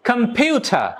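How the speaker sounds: কম্পিউটার with the middle syllable PIU stressed. Shown as a demonstration. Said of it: "মাঝেরটাই".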